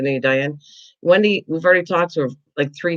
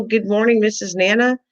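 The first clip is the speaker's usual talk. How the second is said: higher, sweet personal greeting; imagined warm greeting; 5 semitones higher than usual. Retold or imitated. Host imagining the chat greeting her sweetly. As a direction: greet her fondly, like a favourite. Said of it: "Did you go".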